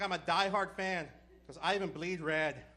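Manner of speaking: hammed-up diehard fan yelling, slow; mock yell. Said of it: "He's yelling at me".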